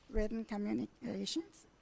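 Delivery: hoarse, strained voice; losing voice. Real, not acted. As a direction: voice giving out. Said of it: "I'm losing my voice here".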